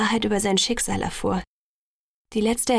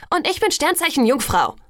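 higher, exasperated outburst; furious call; 6 semitones higher, 4 dB louder than usual. A narrator's reading. Bella cutting off Jacob's vampire talk, angry. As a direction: call it out in fury. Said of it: "rief ich wütend".

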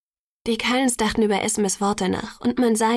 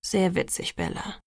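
piqued; 2 semitones lower, 5 dB quieter than usual. A narrator's reading. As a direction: answer a bad joke, unamused. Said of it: "Edward sah mich pikiert an". (pikiert und trocken)

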